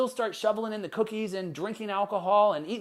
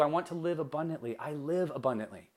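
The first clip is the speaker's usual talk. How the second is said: calm affirmation; 2 semitones lower, 6 dB quieter than usual. Acted. Coach voicing the positive money affirmation, calm and soft. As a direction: state it softly, as a settled truth.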